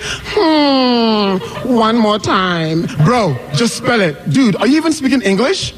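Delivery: a put-on voice of someone who can't follow her accent; bewildered, pestering, talking down to her; mocking confused listener. Impatient American listener mocking the speaker's accent.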